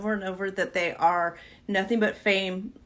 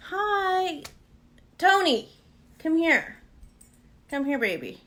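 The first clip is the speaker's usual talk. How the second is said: pet talk; 7 semitones higher than usual. Real, not acted. Calling the dog over.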